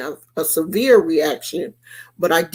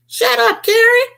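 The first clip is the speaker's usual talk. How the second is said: very high, loud shut up; high squealed shut up; sassy shut up; 13 semitones higher, 5 dB louder than usual. Retold or imitated. First version of line.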